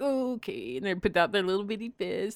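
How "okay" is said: put-on toddler's reply. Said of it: "they'd be like".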